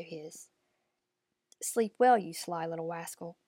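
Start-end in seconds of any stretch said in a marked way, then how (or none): 1.6-3.4 put-on old crone voice. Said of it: "said the old woman".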